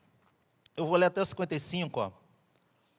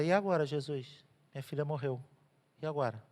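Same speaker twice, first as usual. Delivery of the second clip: despairing; 4 semitones lower, 7 dB quieter than usual. Retold or imitated. Grieving father voiced.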